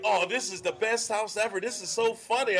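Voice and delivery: lightly imitated delighted mother; amused mom. Imitating a mom at the best house ever, lightly delighted. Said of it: "the mom's like".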